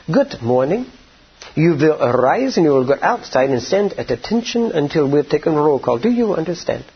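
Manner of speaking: a hint of a stern camp commandant, formal and commanding; lightly voiced officer giving orders over the phone; prison commandant voice. Commandant phoning a freed prisoner, lightly voiced, commanding. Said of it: "that voice sounds something like this".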